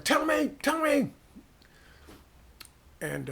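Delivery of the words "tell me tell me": high, loud mock shout of a gunman; demanding shout. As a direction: yell the demand at the village leader. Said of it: "He's like".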